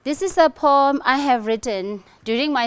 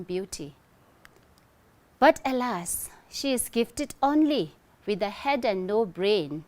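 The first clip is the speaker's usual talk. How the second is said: lightly dramatic poem reading, softer at line ends; poem recitation; 3 dB quieter than usual. Acted. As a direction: read the poem aloud like a recital. Recites her own poem.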